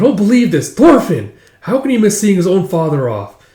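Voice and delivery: exasperated. Acted. Exasperated mother looking for Thorfinn.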